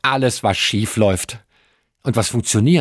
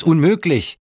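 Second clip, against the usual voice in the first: higher-pitched outburst of disbelief; indignant exclamation; 6 semitones higher, 3 dB louder than usual. A narrator's reading. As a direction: exclaim it like an exasperated passenger. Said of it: "rief er aus". (empörter Ausruf)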